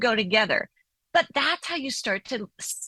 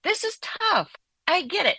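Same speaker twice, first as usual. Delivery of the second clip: put-on higher, gentle validating voice to an upset child; validating parent; 6 semitones higher than usual. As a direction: comfort a child, lifting the pitch on tough. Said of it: "We just name and validate".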